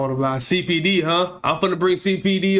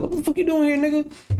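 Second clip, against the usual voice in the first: much higher, startled confronting voice; high mock yell; 12 semitones higher than usual. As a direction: squeal it out at the stranger. Imagined confronting stranger at door.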